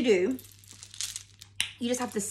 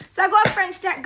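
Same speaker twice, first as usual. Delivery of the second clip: laughing; 5 semitones higher than usual. Real, not acted. Laughing while speaking.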